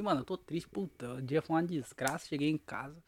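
hushed, low, dejected grumble; acted misery, trailing down very quiet; mock sad. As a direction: drag it out softly like someone worn out by a rotten day. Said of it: "quando você tá triste".

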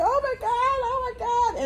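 high, squealing mock panic; imitating cringing daughter. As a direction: act out a frightened, cringing girl. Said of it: "she is cringing".

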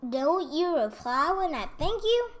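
angered fairy crying out. A narrator's reading. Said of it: "cried the angered fairy".

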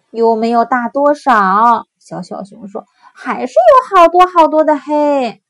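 loud, insistent cub; a small cub still protesting; little bear voice. Acted.

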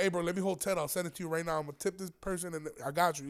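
soft, hushed ask to a friend; quiet aside. Retold or imitated. Asking J V for money on the quiet, soft and hushed. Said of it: "I'll be like".

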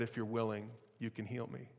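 soft, hushed plea; desperate plea. Acted. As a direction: ask it quietly from his knees. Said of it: "in his desperation".

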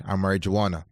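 marijuana said in a West African accent as mah-ree-JWAH-nah; African auntie accent. Real, not acted. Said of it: "I don't know why I said like an African auntie".

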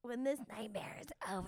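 fast whispered aside. Real, not acted. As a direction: whisper it under your breath. Whispered aside after toast.

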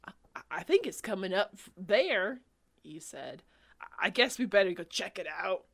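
fast, stammering and nervous. Acted. Nervous Hawkeye.

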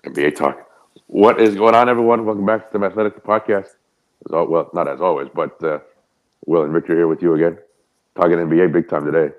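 sweater over the mic, muffled. Real, not acted. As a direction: talk through covered mic. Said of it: "you sound kinda muffled".

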